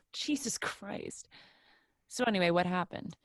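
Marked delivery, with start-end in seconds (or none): 0.1-1.3 laughing exasperation. Real, not acted. Laughing at the banter.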